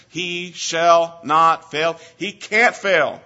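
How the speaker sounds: slow, loud, each word weighted; building emphasis. Real, not acted. Preacher insisting to the church God cannot fail.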